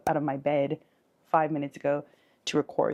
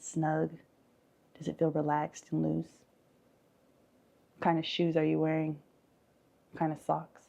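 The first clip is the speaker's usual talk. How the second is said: measured visualization with lingering pauses; guided meditation. Acted. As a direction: gently lead them through an imagined scene. Leads a guided forest visualization.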